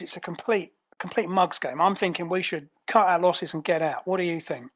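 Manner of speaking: fed-up Cockney henchman; Cockney, sizing up a bad job; Cockney ape. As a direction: grumble in a Cockney accent. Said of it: "I love that he's a Cockney ape".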